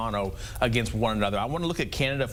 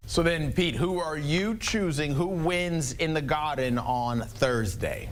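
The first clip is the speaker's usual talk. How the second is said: a terrible put-on Boston accent, slowing at the end; lightly hammed Boston accent; bad Boston accent. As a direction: ham up a Boston accent to tease the co-host. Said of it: "That's a terrible accent".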